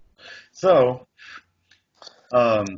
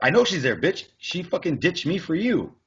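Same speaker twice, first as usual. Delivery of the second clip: retold angry retort; 5 semitones higher than usual. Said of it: "And I was like".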